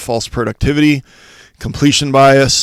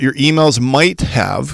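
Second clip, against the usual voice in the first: "might" stressed and slowed down. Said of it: "I emphasize the word might".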